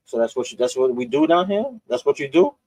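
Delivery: retold disbelief, rising into a high question; incredulous friend. Friend's disbelief voiced in story.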